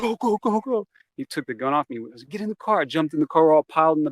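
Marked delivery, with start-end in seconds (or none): 0.0-0.9 high, rapid-repeat mock yell; urgent command. Teen urging friends to run from gunman, urgent command. 2.3-2.8 high-pitched mock yell; urgent order. Teen rushing friends into getaway car, urgent order.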